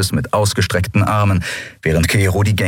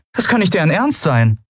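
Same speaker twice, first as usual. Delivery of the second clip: disbelieving; 11 semitones higher than usual. Acted. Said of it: "Endril konnte es nicht glauben".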